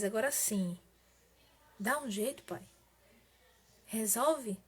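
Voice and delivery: understated, weary prayer with pauses; mildly worn out, giving up the fight to God; retold tiredness. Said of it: "eu tava tão cansada, eu disse assim". (oração de quem está um pouco cansada)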